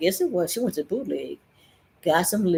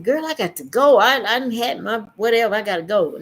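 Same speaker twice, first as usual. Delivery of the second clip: louder, higher, pressing to leave; urgent insistence; 4 semitones higher, 5 dB louder than usual. Retold or imitated. Telling the high friend urgently that she must go. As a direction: insist loudly that you must go.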